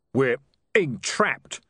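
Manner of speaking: slow moan; slow, drawn-out moaning. Acted. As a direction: moan the words out miserably. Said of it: "moaned Tulip".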